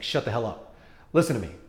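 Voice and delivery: lightly voiced put-down; a hint of a bossy order; mild mock superior. Interviewer imitating the tone, mildly superior. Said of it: "in the tone of voice like".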